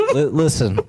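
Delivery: Trump impression. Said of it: "It's the ghost of Trump's past".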